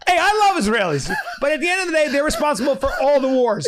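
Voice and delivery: high, laughing mock impression; Sam. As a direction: keep up the squeaky parody of a friend. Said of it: "this is Sam".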